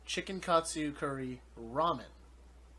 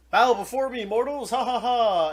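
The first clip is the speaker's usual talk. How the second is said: loud, high, laughing villain voice; booming demon king; 8 semitones higher, 10 dB louder than usual. Retold or imitated. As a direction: boom it out like a gloating demon king. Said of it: "So he's like".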